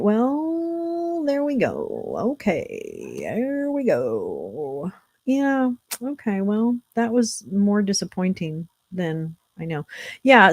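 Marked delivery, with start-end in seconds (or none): 0.0-4.9 swooping voice. Pretend. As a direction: stretch and swoop the words. Stretched swooping words.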